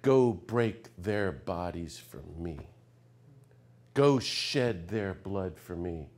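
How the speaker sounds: slow, low mock command; mock tough-guy version. Preacher mocking what a good American Jesus would say, slow sneer. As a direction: sneer it like a gung-ho patriot. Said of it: "If he were a good American".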